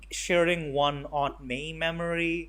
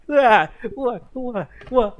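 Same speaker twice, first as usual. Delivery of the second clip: loud, higher, jumpy yelps of alarm; hammed-up startled Punisher; 9 semitones higher, 12 dB louder, slower than usual. Punisher in a Spider-Man mask, mock panicked yelps. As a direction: bounce around yelping in panic.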